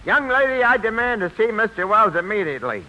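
demanding. Acted. Meek man turns tough, demands entry.

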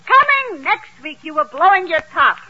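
mock trailer announcement in a Yiddish accent; movie trailer. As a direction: hype it like a coming attraction, Yiddish-accented. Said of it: "it's flashing on the screen".

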